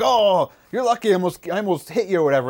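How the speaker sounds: high-pitched imitation of a startled man; startled retelling. Wood chipper guy turns around on the intruder, mock startled. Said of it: "the guy gets startled".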